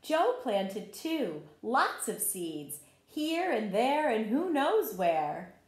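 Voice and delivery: slow, gentle read-aloud for little ones; story narration. A narrator's reading. Teacher reading a garden story to children, gentle read-aloud. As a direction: tell the story like a picture book at circle time. Reads picture book to children.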